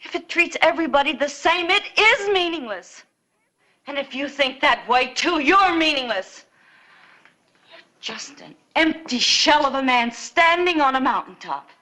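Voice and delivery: heated, punching the key words; impassioned rebuke; angry accusation. Acted. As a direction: turn on him scornfully. Sister turns on the marshal.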